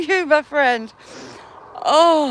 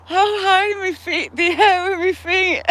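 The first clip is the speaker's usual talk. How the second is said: laughing; 3 semitones higher than usual. Real, not acted. Laughing at her own fall.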